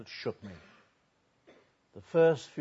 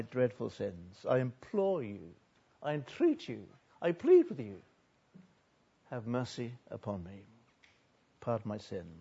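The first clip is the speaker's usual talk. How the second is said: begging for mercy. Acted. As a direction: plead humbly with God, acting the penitent. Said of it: "He begged the Lord his God".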